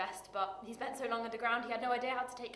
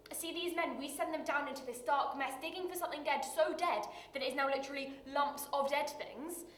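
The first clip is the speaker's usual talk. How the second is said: impassioned outburst; 2 semitones higher than usual. Acted. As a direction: press hard on each grim image. Impassioned monologue about father's mine.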